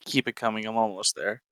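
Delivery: breathy mock-aroused whisper. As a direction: whisper it like you're enjoying it too much.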